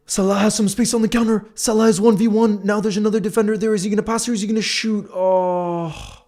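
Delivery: high, loud, fast play-by-play; excited commentary. Real, not acted. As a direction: call the counter like a commentator. Live counterattack commentary.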